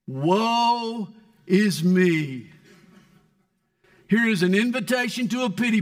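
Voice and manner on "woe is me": slow drawn-out lament. Retold or imitated. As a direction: stretch it out like a mournful prayer. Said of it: "Note how he begins his prayer".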